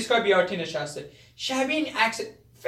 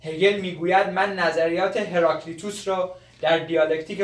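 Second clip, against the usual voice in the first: lowered, formal study-reading voice; weary reading aloud; 3 semitones lower than usual. Acted. Student reads Hegel aloud from his book, a touch weary. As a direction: recite the textbook, mildly fed up. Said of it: "جوون کتابشو کلافه میخونه".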